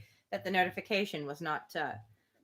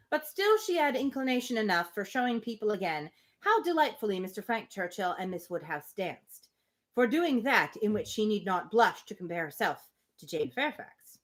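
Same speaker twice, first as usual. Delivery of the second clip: measured, even storybook reading; steady literary narration; reading a novel aloud. Acted. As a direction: read the passage to the group like an audiobook.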